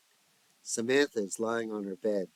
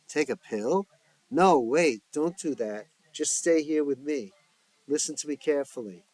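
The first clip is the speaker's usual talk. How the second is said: alarmed; 4 semitones higher, 5 dB louder than usual. Acted. Kamala alarmed by suicide talk.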